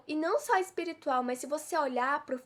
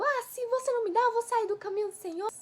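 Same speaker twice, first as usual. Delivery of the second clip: threatening God; 8 semitones higher, faster than usual. Retold or imitated. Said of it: "você ameaça Deus".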